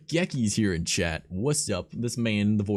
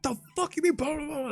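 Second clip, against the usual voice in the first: much higher squeaky mock voice; mock retort. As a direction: fire it back in a silly high voice. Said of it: "I'm like".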